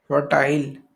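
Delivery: unvoiced whisper of the word. Shown as a demonstration. Teacher repeating a vocabulary word to the class in a whisper. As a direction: breathe the word out with no voice.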